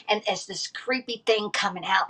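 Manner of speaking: hushed, spooky whisper; creepy whisper. Real, not acted. Telling friends about a creepy sea creature, in a spooky whisper. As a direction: whisper it like a scary secret.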